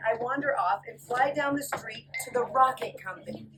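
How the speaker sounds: lively storybook read-aloud; reading to children. Acted. Teacher reading a fly's story to the class, lively. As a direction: read it brightly to a room of kids. Reading picture book to kids.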